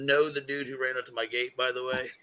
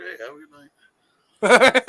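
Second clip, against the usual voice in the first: high, loud, drawn-out goodnight; mock cheerful sign-off; 11 semitones higher, 12 dB louder, much slower than usual. Storyteller brushing off the cops, mock cheerful. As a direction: send them off in a put-on high voice.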